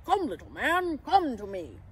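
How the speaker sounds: coaxing character voice; Santa's gentle coaxing. A narrator's reading. Santa on one knee to the pixie, coaxing. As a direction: beckon a timid little one. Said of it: "then whispered".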